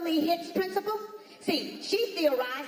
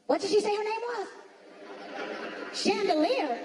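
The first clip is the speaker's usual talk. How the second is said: confused white listener; 5 semitones higher than usual. Retold or imitated. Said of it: "you went".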